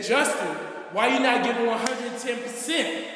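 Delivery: a coach barking at his player; mock coach shout; retold coach yell. Coach scolding him, retold.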